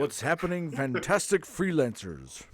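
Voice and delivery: hammed-up YouTuber greeting, slowing at the end; deliberately bad impression, stretching out the last words; terrible William. Co-host mocks William's video greeting, lightly put-on YouTuber voice. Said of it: "I did a good job of being terrible William".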